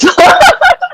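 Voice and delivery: high, embarrassed giggle; a sheepish high laugh. Real, not acted. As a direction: laugh at yourself, high and quick. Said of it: "Sorry, sometimes I just".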